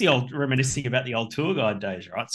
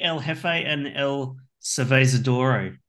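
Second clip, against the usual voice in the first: mock Spanish; slower than usual. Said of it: "Boss and the Brewer in Espanol".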